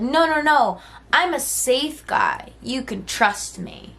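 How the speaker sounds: high, slow faux-soothing no no no; mock reassuring creep. Man pretending to be safe, slow mock reassurance. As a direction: sell him as harmless, slowly. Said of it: "Acting like he's safe".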